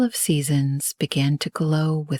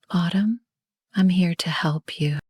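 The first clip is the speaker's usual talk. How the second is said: gentle call; 2 semitones higher than usual. Acted. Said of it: "She called gently".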